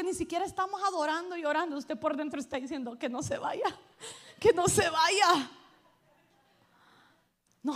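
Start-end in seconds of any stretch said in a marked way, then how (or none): 3.0-3.8 half-laughing mock fret; laughing inner worry. Church member fretting that the guest will leave, laughing. 4.4-5.5 louder, slower mock plea; pleading repeat. Church member begging inside that the guest stays, louder slow mock plea.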